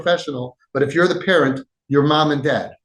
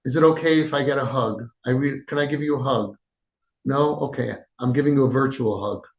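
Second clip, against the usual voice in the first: gentle asking; 2 semitones lower, 3 dB quieter than usual. Shown as a demonstration. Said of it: "and thank them and say".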